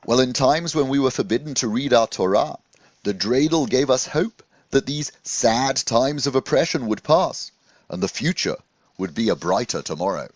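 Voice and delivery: a hint of a kindly old rabbi; gently voiced rabbi recalling hard times; lightly voiced rabbi. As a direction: explain it like a patient teacher. Rabbi Cohen explains the dreidel.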